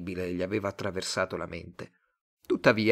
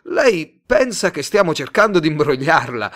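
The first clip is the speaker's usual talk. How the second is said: urgent pleading salesman; 6 semitones higher, 10 dB louder than usual. Acted.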